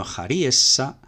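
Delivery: slow "jariesa" with RI stressed; stress kept on RI. Shown as a demonstration. Teacher showing the feminine keeps the accent, "jariesa" stressed on RI. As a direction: draw out "jariesa", keeping the stress on RI. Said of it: "se conserva el acento en la misma sílaba".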